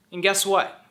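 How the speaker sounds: unvoiced playful whisper. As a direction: whisper it like a secret. Whispered tease before closing line.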